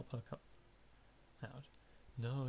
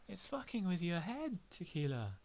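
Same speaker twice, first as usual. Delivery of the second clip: louder, pointed warning; blunt warning; 7 semitones higher, 4 dB louder than usual. Acted. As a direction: tell the drunk straight. Telling drunk to quit booze.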